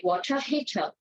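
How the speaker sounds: water heater with a crisp t and no final r, waw-tuh hee-tuh; British English; British accent. Shown as a demonstration. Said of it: "or the Brits, they would say".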